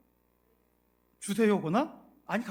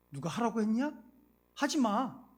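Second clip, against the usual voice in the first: 탓하는 말투; 4 semitones higher than usual. Retold or imitated. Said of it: "네 탓이다".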